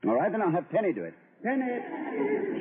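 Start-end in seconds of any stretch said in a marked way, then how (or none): 1.4-2.6 calling out. Acted. Calling for the maid.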